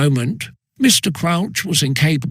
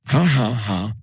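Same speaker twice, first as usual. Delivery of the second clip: class laughing; 4 semitones lower than usual. A narrator's reading. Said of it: "yelled the remove".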